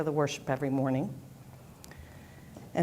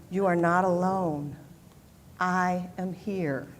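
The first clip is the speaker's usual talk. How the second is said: slow shared affirmation; slower than usual. Shown as a demonstration. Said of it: "Can you say that with me?".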